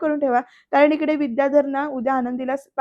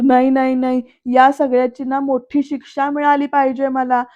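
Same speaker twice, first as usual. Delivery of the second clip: mock outburst; 4 dB louder than usual. Vidyadhar acting out despairing outburst.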